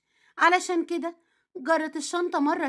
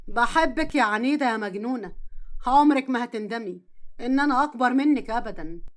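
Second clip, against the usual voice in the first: tender love; 4 semitones lower than usual. Acted. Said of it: "حضنها جامد".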